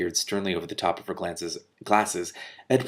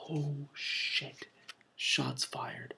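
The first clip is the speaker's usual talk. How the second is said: hushed, much softer aside; whispered aside; 6 semitones higher, 12 dB quieter, much slower than usual. Real, not acted. Reader reacting to the witch's jab, whispering. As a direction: murmur it to the audience. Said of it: "reader's aside".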